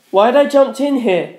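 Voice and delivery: frantic high shout; yell. A narrator's reading. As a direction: yell at your own mistake. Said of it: "I yelled".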